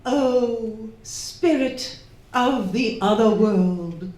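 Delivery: séance invocation. Acted. Hostess invoking spirit at séance.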